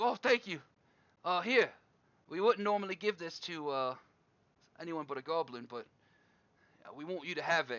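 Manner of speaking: thrilled, eager, gushing excitement. A game narrator voicing a group after a goblin offers to find someone; really excited. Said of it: "And they all get really excited".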